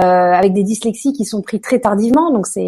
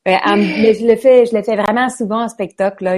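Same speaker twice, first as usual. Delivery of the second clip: a hint of a Québécois accent; light Quebec accent. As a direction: slip lightly into Quebec French. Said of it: "j'adore parler avec cet accent". (un léger accent québécois)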